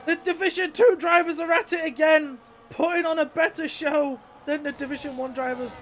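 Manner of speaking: loud, high hyped commentary; motorsport commentator. Real, not acted. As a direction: sell the show to viewers. Hyped praise of drivers.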